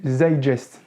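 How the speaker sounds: zeitgeist slowly in a clumsy German accent; a self-mocking, poor German accent on zeitgeist; bad German accent. Shown as a demonstration. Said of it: "mon accent allemand est aussi pourri".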